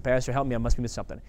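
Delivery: the right way, humbly; asking the pastor humbly for understanding; humble request. Shown as a demonstration. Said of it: "That's how I tried to approach that".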